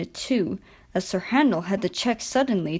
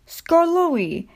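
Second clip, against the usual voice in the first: surprised, higher and louder; exclaimed; 9 semitones higher, 4 dB louder than usual. A narrator's reading. Controller spotting the old engine, surprised exclamation. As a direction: call the name out in surprise. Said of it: "he exclaimed".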